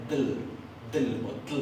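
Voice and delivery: "dl" and "tl" as one stop-plus-L sound; double L as dl. Shown as a demonstration. Teacher demonstrating Icelandic double L, pronounced "dl" or "tl". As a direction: release "dl", then "tl", straight into the L. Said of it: "la doble L se pronuncia".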